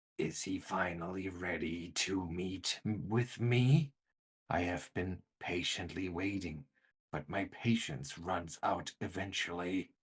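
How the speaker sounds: rasping, scraping, harsh, grating delivery. Narrator voices a meditating figure speaking in Sackfroth as the players open the door, grating voice. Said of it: "you hear a grating voice".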